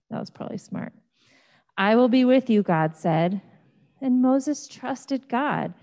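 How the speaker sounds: animated storytelling voice with big pitch swings; story for children. Acted. Pastor reading the burning bush story to children, animated. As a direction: tell it like a picture book for kids.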